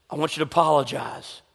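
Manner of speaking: the Lord's voice. Retold or imitated. The Lord telling an angry man to apologize, calm. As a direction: give a quiet, measured instruction.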